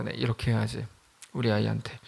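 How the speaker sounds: murmured resolve. Retold or imitated. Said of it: "가슴이 뜨거워서".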